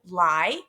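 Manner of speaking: "lie" as a lone syllable ending on a long I; "lie" set apart to show its long vowel. Shown as a demonstration. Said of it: "ending with that long vowel sound".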